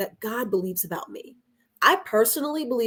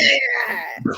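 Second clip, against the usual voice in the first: excited; 13 semitones higher than usual. Real, not acted. Hyping the nickname.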